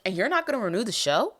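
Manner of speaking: hammed-up hurt complaint; heartbroken outrage. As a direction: act personally betrayed, playing it up. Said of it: "it just shattered my heart".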